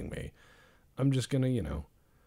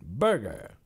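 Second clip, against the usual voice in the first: put-on mid-Atlantic radio accent; 4 dB louder than usual. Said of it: "that mid-Atlantic radio accent".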